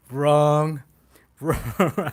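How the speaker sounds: emphatic correction. Real, not acted. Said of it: "I was so wrong".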